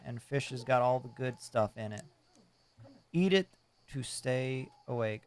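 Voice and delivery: lightly voiced old fisherman; a hint of a salty old sailor; gruff old fisherman. Voicing fisherman NPC dialogue.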